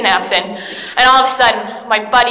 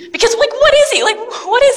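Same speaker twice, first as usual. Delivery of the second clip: laughing confusion; 11 semitones higher than usual. Acted.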